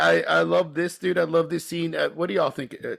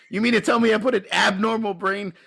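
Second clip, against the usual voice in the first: higher-pitched mock outrage; imitating losing his shit; 5 semitones higher than usual. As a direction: retell it as a mild comic meltdown. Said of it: "he starts losing his shit".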